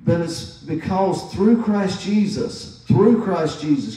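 through stretched and leaned on, slow and heavy; stress on through. Shown as a demonstration. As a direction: hammer the word through each time. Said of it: "I'm emphasizing these words".

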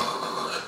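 soft sleeping breath; mock snooze exhale; imitated dozing breath. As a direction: breathe out like someone nodding off. Imitates falling asleep in car.

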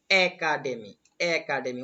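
একাডেমি carefully as "e-ka-de-mi"; pronunciation demo. Shown as a demonstration. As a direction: sound out একাডেমি for learners, long first vowel. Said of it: "উচ্চারণটা একটু খেয়াল করো".

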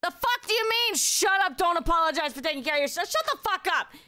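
high-pitched, playfully indignant telling-off; mock scolding. Scolds chatter for apologizing, playfully.

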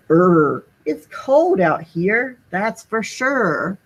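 slow shivery snowman voice; shivering snowman. Acted. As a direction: shiver through the words, drawn out. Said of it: "Sneezy the snowman shivered".

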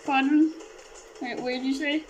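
Kermit the Frog voice. Acted. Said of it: "Gonna be doing a Kermit the Frog voice".

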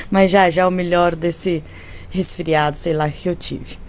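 quacky voice from a cold; talking through a cold, quacky; duck voice. Real, not acted. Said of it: "minha voz de pato que eu estou".

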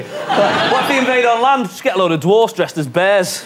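giggly mock outrage; laughing shout. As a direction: crack up while shouting the idea. Mock president defence plan rant.

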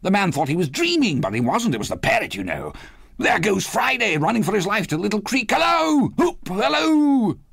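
high, rushing, exuberant storytelling; excited cries. A narrator's reading. Scrooge relives Robinson Crusoe, excited cries. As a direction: rattle it off and whoop with delight. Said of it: "cried Scrooge".

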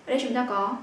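ordinary delivery

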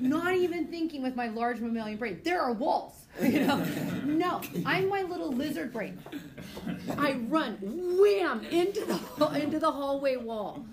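teacher laughing while telling students about her crash. Real, not acted. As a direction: laugh through the story of the crash. Laughing through her crash story.

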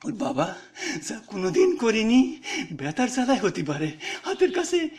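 a poor mother lightly voiced, recounting her loss with a touch of tears; grieving village mother. Mother telling the teacher about her daughter, gently tearful. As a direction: let the village mother's grief seep through, understated.

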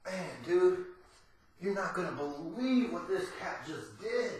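low, hushed aside into the phone; hushed phone call. Pretend. Telling a friend on the phone about the cat, hushed.

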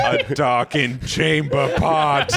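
slow, hammed-up old-world phrasing; mock medieval voice. Friend renaming the bathroom, mock medieval voice. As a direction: draw it out like a fantasy character, laughing.

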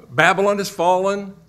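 loud, high-pitched proclamation; mighty cry. Acted. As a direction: call it out like an announcing angel. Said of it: "cry out with this mighty voice".

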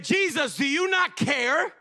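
high, loud panicked plea; panicked disciples. Retold or imitated. Disciples waking Jesus in the storm, panicked plea. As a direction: cry out like you're sinking.

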